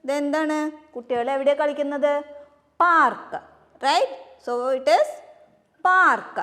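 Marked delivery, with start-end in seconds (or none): 2.8-3.3 model word. Shown as a demonstration. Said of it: "What is the spelling?". 5.9-6.4 model word. Shown as a demonstration. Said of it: "What is the spelling?".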